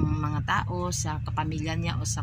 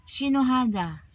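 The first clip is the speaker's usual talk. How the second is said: employer's sharp question; 6 semitones higher than usual. Retold or imitated. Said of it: "tinatanong ka ng madam mo".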